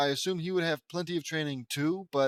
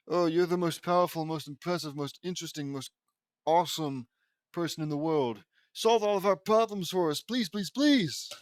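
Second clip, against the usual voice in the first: a mocking suck-up pleading for help; mock fawning plea. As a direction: ham up the desperate flattery.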